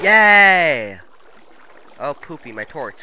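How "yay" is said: loud, high triumphant yay; excited cheer. Real, not acted. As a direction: cheer the clutch landing. Landing the water bucket clutch.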